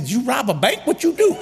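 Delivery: high, laughing disbelief; mock shocked wife. Wife asking if he robbed a bank, mock shocked. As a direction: act out his wife's astonishment.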